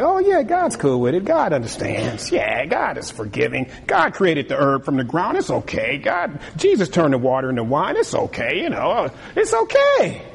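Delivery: smooth tempter. Retold or imitated. Preacher mimicking a tempter excusing sin, coaxing. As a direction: sell the lie gently and easily.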